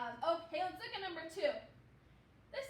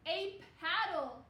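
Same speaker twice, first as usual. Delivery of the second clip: slow; 4 dB louder, slower than usual. Shown as a demonstration. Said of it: "let's say it really slowly".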